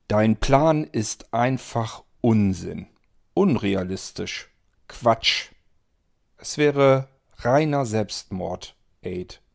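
dismissive Antonio. Acted. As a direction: brush the plan off as nonsense. (Antonio tut den Plan langsam und spöttisch ab)

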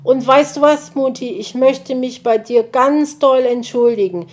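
hohe Kinderstimme, eifrig; kleiner Igeljunge. Acted. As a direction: ein aufgeregter kleiner Junge entschuldigt sich. Kind Borstel entschuldigt sich. (Borstel entschuldigt sich eifrig bei Mutti)

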